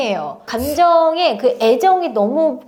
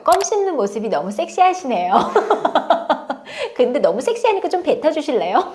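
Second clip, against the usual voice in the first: joking with a laugh; playful mock-flattery laughing; teasing joke; 3 semitones higher than usual. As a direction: tease the student playfully. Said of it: "되게 농담을 했어요".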